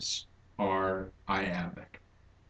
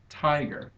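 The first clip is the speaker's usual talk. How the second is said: "tiger" starting higher on TI, falling on "ger"; stress on first syllable; 5 semitones higher than usual. Shown as a demonstration. Teacher showing the second foot, "tiger" stressed on TI. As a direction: hit TI, release "ger". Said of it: "again, the first syllable is stressed".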